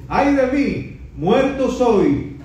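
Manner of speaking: high, pleading cry of guilt; high desperate lament before God; anguished Isaiah. Retold or imitated. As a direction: beg forgiveness in terror. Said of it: "signo de admiración, de exclamación".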